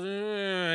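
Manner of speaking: put-on drawn-out "uh" from a child; child's fussing noise. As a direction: imitate a child's little protest. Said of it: "the child goes".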